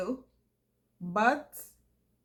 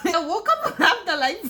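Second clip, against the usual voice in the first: giggling through the words; can't stop laughing while telling it; 3 semitones higher than usual. Real, not acted. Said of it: "I'm crying".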